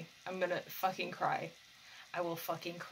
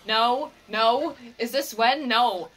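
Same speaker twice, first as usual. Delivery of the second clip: louder pleading protests; desperate loud no; 3 semitones higher, 10 dB louder, slower than usual. Real, not acted. Viewer protesting a painful scene, loud desperate no. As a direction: shout no at the screen.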